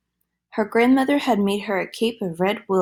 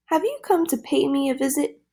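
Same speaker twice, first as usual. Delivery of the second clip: squeaky; 5 semitones higher than usual. Acted. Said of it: "he squeaked".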